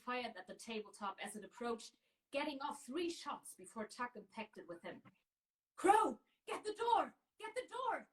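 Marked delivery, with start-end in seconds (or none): 5.8-8.0 loud, high urgent command; shouted. A narrator's reading. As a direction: bellow the order mid-fight. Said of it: "Tuck shouted".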